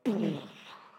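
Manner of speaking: loud mouth-made speaker noise; imitated sound-system blare. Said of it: "the sound system is like".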